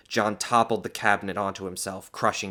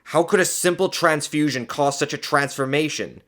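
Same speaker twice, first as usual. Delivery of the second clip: raised, louder wondering; rhetorical question; 7 semitones higher, 6 dB louder than usual. A narrator's reading. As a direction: puzzle aloud, expecting no answer. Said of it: "he asked rhetorically".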